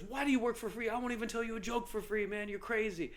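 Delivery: lightly voiced old homeless man scoffing; imitating old man. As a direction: play the baffled old man, amused. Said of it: "he goes".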